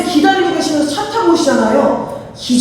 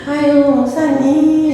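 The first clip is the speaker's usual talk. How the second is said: slow, drawn-out reluctant protest; reluctant groan; slower than usual. Retold or imitated. Church member putting off the pastor's invitation, mock reluctant. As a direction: imitate someone dragging out an excuse. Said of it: "이러고 계시다가".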